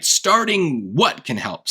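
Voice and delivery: slow, mock-puzzled "Starting what can help?"; slowly voicing a confused reader; puzzled question. Shown as a demonstration. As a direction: ask it like it makes no sense. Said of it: "what are we even talking about".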